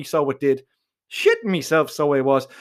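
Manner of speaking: usual speaking voice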